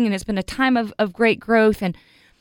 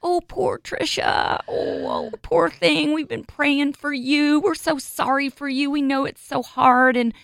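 mock pitying friend; 3 semitones higher than usual. Retelling a church friend's pity, high and gushing. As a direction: imitate a gushing sympathetic friend. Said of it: "she goes".

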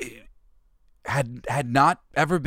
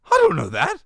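much higher and louder, sudden panic; panicked knight; 9 dB louder, faster than usual. Retold or imitated. Knight stumped by the bridge keeper, high loud panic. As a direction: blurt it out in high alarm. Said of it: "He goes".

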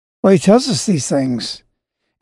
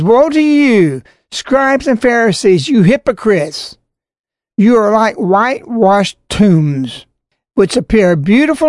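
preached woe; 2 semitones higher than usual. Acted. Quoting Jesus' woe.

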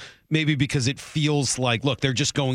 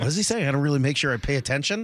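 anxious listener; 3 semitones higher, faster than usual. Retold or imitated. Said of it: "like, kinda leaning in".

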